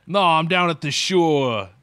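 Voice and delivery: slow mock Boston drawl; slow jokey Boston accent. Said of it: "like, a Boston accent".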